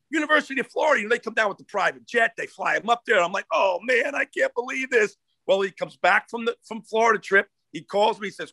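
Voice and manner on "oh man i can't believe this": higher-pitched exasperated groan of disbelief; mock-anguished disbelief; retold dismay. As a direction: replay your own exasperation. Retells his dismay at the visit.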